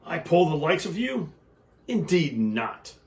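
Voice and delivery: haughty, scornful engine; a touch of snobby disdain; snooty snort. Acted. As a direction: look down your nose at the little train. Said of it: "the shiny new engine snorted".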